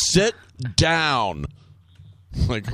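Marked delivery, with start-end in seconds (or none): 0.1-1.4 firm, drawn-out order; hammed-up boss command with a gap between the words; Alec Baldwin. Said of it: "And he goes".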